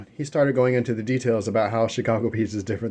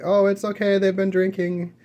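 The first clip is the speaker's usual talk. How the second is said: much higher, louder placating voice; smooth it over for the whole bar, pitched way up; soothing high tone; 11 semitones higher, 6 dB louder, slower than usual. Retold or imitated. Calming the staring bar crowd after a punch, high placating tone. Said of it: "either it was the tone of my voice".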